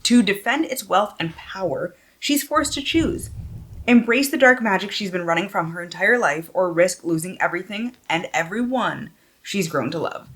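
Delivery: lifted, animated back-cover reading; expressive book-jacket narration; dramatic blurb read. Real, not acted. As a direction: read the blurb out with storyteller emphasis.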